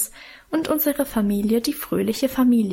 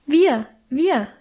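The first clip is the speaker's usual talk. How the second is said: put-on kids volunteering, higher and louder; children eagerly offering to wash the sheets; 4 semitones higher, 4 dB louder than usual. A narrator's reading. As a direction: jump in eagerly, keen to help. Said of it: "erboten wir uns eifrig".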